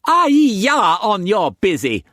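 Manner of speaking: put-on high, loud playful young woman; Mei Mei's voice. A narrator's reading. Mistress teasing Struan in bed, high playful voice. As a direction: tease him in a high bright voice.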